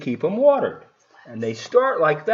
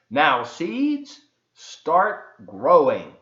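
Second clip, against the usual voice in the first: louder, very slow order to the seeds; said loudly; 3 dB louder, much slower than usual. Acted. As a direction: lean in and call to the seeds slowly. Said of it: "said loudly".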